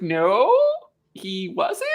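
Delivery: incredulous denial. Acted. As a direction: lift it into a puzzled, amused contradiction. Repeats the mock reply, laughing after.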